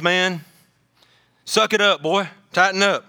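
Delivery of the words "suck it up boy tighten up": higher, punchy command; lightly voiced tough coach. Elder teaching a boy to be a man's man, mildly stern.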